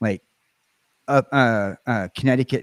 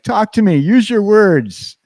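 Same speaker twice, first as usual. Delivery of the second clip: high, loud, slow mock-pleading; pleading himself; 10 semitones higher, 6 dB louder, slower than usual. Host mimics himself begging his British friend to talk, high loud plea. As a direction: beg her in a high voice, dragging out the words. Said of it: "but I'm like".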